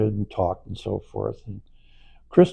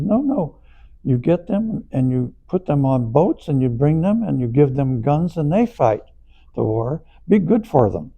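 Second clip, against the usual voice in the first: high, loud, insistent retold guru; emphatic insistence; 5 semitones higher, 4 dB louder than usual. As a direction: press the point hard and bright, mock-serious.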